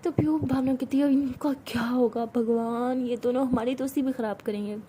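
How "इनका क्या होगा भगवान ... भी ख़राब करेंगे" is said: fond sigh. Acted. Bhavna sighs over quarrel.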